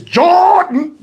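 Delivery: high, drawn-out "Jordan" cry; imitated showy holler; just like that. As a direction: call out the player's name mid-jump. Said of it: "just like that".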